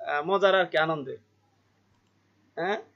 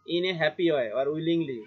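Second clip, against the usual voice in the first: slow reading; much slower than usual. Shown as a demonstration. Teacher reads definition slowly.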